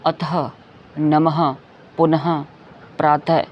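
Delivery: "अतः, नमः, पुनः, प्रातः" each ending in ha; "नमः" as namaha, word by word; visarga endings. Shown as a demonstration. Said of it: "अ के बाद दो बिंदियां".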